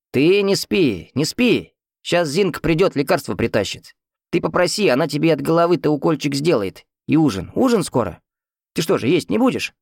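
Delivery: put-on high, lively voice of a chatty old patient; fussy old man. A narrator's reading. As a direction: nag the sleepy neighbour like an eager old man. Talkative old man persuades. (высокий суетливый старческий голос)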